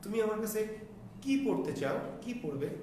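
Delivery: stressed, lengthened কি, falling after it; long কী. Shown as a demonstration. Teacher asking a student what they want to study, long কি. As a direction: hold the vowel of কি and let the question fall. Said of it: "দীর্ঘ করে উচ্চারণ করতে হবে".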